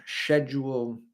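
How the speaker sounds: "schedule" said shed-yool, British style; a light British schedule. Shown as a demonstration. Streamer demoing British "schedule" for chat. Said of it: "in a British accent".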